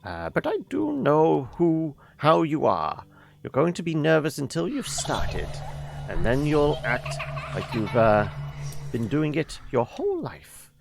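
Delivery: put-on old lady voice. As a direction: talk like a kindly grandmother. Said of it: "So we should do the old lady voice".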